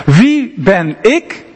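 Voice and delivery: slow, hesitant, doubting question; onzeker. Retold or imitated. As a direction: ask it like a man unsure of himself. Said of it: "Onzeker, onzeker". (traag en onzeker gevraagd)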